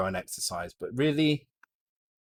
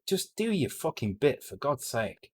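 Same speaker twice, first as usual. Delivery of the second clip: real exasperation, pitched up then dropping; fed-up, annoyed outburst; exasperated; 4 semitones higher than usual. Real, not acted. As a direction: plead crossly, fed up with people. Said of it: "it pisses me off".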